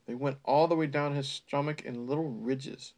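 breathy mock-seductive whisper; mock sultry whisper. Reader mocking the steamy prose, whispered.

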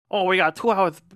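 mock Southern wrestling announcer; Dusty Rhodes Southern drawl. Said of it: "like, weird Southern accent".

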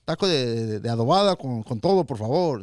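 ordering like a local. Shown as a demonstration. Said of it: "right here, like".

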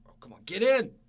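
loud, high cheering yell; excited shout. Real, not acted. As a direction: scream at the TV as they score. Cheering a goal live.

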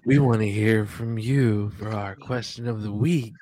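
creepy stalker host voice. Pretend. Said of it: "I'm a fucking creep".

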